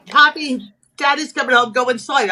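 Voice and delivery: a hint of a fussing nana shooing the kids in; nana's warning. Nana warns the grandchild Daddy is coming, mildly voiced. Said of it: "But her mother, my nana".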